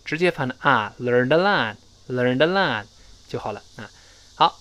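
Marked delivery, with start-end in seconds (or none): 1.0-2.8 "learned a lot" run together as "learn-da-lot"; slow linked "learn-da lot"; linked pronunciation. Shown as a demonstration. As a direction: join "learned" straight onto "a", drawn out for learners. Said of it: "注意连读".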